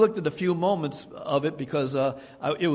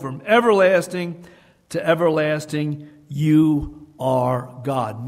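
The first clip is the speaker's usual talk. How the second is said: louder, measured Psalm reading; solemn louder Bible reading; scripture reading; 4 dB louder than usual. Acted. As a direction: proclaim the Psalm to the congregation. Reading Psalm ninety aloud.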